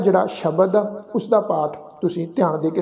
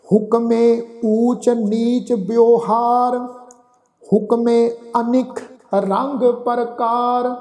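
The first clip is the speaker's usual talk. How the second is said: slow recitation with long held final syllables; measured level-toned sacred reading; scripture recitation; 2 semitones higher, much slower than usual. Acted. Teacher recites Gurbani to the congregation, slow scripture recitation.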